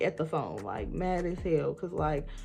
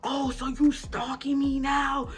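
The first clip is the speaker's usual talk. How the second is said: mocking girlfriend; 5 semitones higher, 3 dB louder than usual. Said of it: "That's what she getting into".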